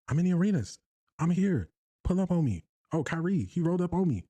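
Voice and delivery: mock swagger thrown back at a pundit; mimicking Stephen A. Host mimics Stephen A again.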